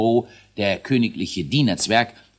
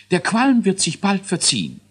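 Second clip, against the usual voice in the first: high, squeaky scientist dwarf counting down; a fussy little boffin announcing launch; learned dwarf voice; 10 semitones higher, 4 dB louder than usual. A narrator's reading. Dwarf scientist starts the rocket countdown, high and squeaky. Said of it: "mahnte Elisius".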